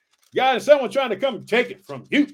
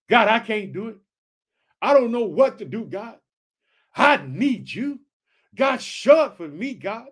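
earnest, pleading cry to God; pleading prayer; 4 dB louder than usual. Shown as a demonstration. Preacher voicing a desperate prayer, earnest pleading. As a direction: beg God for help with rising urgency. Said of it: "That's what I'm saying right now".

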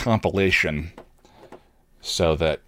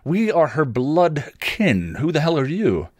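higher, indignant ranting; a father defending his blood kin, pitched up in outrage; 7 semitones higher than usual. Acted. Father rants at the strangers meddling in Tara's affairs, higher and indignant. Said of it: "her father's ranting".

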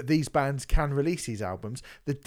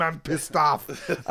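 Arnie impression; much slower than usual. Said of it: "Sound like Arnie and Twins".

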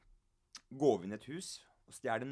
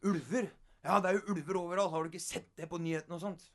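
mock indignant disbelief; 5 semitones higher, 4 dB louder, faster than usual.

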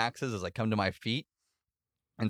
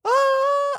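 very high loud shout; battle cry; 6 dB louder than usual. Acted. Player defending his battle cry with a high loud yell. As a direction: scream it, aiming low but going high. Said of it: "I'm trying to do the low voice".

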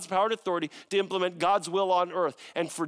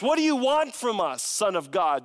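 raised shouting voice of the demons; 4 semitones higher, 4 dB louder than usual. Acted. Demons shouting at Jesus from the road, raised voice. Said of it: "they shouted".

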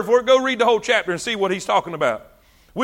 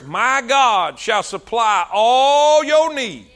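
slow quoting voice; much slower than usual. Retold or imitated. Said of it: "quoting that verse".

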